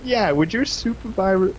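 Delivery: put-on slurry high drunk question; drunk friend. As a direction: drag it out like a wasted teen. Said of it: "he's like".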